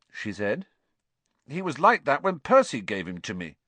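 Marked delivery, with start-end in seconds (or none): 1.5-3.6 defensive. Acted. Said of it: "said Ron defensively".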